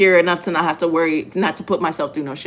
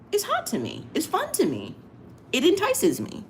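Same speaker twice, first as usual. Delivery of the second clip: playful purr; 13 semitones higher, 5 dB quieter than usual. Real, not acted. Teasing confession of her kink.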